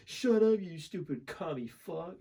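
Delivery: high-pitched mock Russian outburst; Russian accent. Gamer trolling a teammate in Russian, mock Russian accent. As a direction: put on a Russian accent, drawing out the insult. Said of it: "like, doing it in Russian".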